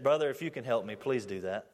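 tearful plea. Retold or imitated. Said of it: "looked at me with big tears in his eyes".

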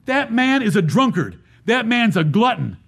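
mock accuser, stressing each charge; scornful emphasis. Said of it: "they said it with emphasis".

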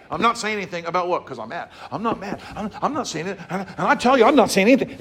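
soft, quick, laughing denial; mock mad denial. Preacher mocking an angry person insisting they're not mad. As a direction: deny being mad while laughing.

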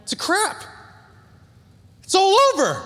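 high, loud mock despair; hammed-up cry of doom; dramatic wail. Real, not acted. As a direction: wail it like all is lost.

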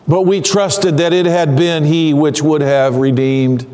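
slow, understated disappointment, sinking low on the last word; Cleopas, disappointed. Acted. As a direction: let hope drop away at the end. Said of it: "Can you hear the disappointment in his voice?".

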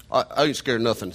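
Missouri hillbilly, mouth full of chew; Missouri hillbilly accent. Shown as a demonstration. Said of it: "sound like you have".

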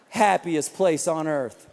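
slow, dry sarcastic echo of the slogan. Real, not acted. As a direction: let the irony drip, slowly. Mocking repeat of the slogan.

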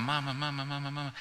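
softly voiced baby babbling mama; a hint of a toddler's first words; baby talk. Dad imitating his baby babbling, quiet baby voice. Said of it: "And they're going".

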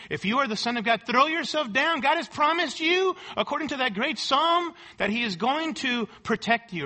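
tempter's taunt. Pretend. Preacher voices Satan's second temptation.

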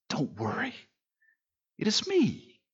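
softly reassuring Jesus; hushed reassurance. Retold or imitated. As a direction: soothe frightened friends quietly. Jesus reassuring, dropped to hush.

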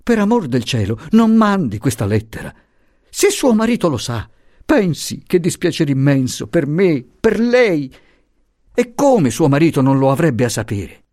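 high, distressed begging; pleading professor. Acted. The professor begging Luisa, high and distressed. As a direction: beg her not to send it.

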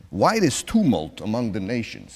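put-on psalm read in a Brooklyn accent; mock Brooklyn reading, a touch nasal-free. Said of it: "This is how they say the psalm in Brooklyn".

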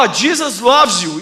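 put-on slow, halting Brazilian-accented "Jesus loves you"; broken English. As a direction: say it carefully in clumsy English. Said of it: "Fala com broken English".

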